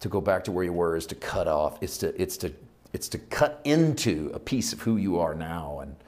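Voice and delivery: unhurried praying with searching pauses; heartfelt prayer. Real, not acted. Preacher thanking the Father for tonight's word, heartfelt prayer. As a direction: open strongly, then settle into reflective prayer. Closing prayer addressed to God.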